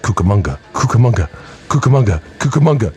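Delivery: building from plain to a loud chant. Pretend. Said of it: "Just, like, louder and louder and louder".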